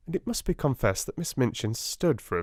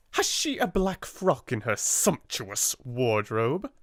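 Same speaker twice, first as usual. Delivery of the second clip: slow, bitter ironic question; bitter irony; 4 semitones higher than usual. Acted. Miss Minchin mocks Sarah's wardrobe to her sister, bitterly ironic. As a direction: sneer at the sumptuous wardrobe. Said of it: "in bitter irony".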